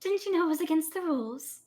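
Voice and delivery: light airy priestess. Acted. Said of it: "speaks in a light and airy voice".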